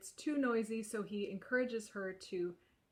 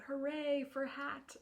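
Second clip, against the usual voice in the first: higher, drawn-out cheer; mild mock shout; 5 semitones higher than usual. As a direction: cheer it slowly, like readers joining in, without yelling. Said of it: "readers get to shout".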